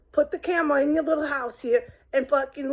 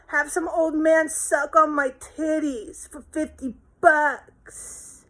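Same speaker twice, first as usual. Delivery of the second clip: very high, slow, sobbing plea; crying job seeker; 6 semitones higher, slower than usual. Acted. Jobless woman begging for work, high and sobbing. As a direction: wail it out like a desperate beggar. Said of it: "when you're crying".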